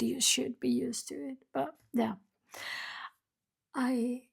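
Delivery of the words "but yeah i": ordinary talk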